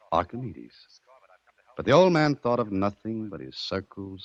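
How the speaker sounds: measured storytelling with deliberate pauses; story narration. Acted. Captive telling gangster of Archimedes, measured storytelling. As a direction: tell it like a solemn parable.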